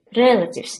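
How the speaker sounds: first syllable of relatives stressed. Giving pronunciation feedback on a word: stress on first syllable of relatives. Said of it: "you push the stress on the first syllable".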